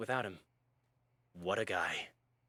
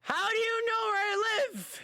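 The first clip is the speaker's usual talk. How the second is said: Colonel Sanders voice; 3 dB louder than usual. Acted. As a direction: react as the uneasy Colonel. Colonel voice scared reaction.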